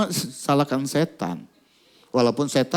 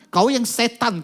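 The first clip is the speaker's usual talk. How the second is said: higher angry retort; 8 semitones higher, slower than usual. Retold or imitated. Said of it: "kata anak ini".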